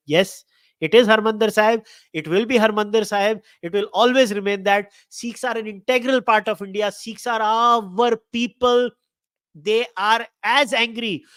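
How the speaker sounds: real anger, punching the key words; angry insistence. Real, not acted. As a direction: hammer each statement home angrily. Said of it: "I was really angry today".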